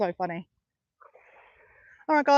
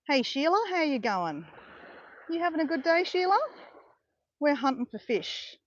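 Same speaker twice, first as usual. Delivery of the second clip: put-on broad Australian Ocker accent, higher, chatting to a pelican; 3 semitones higher, 4 dB quieter than usual. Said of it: "putting on the Ocker accent".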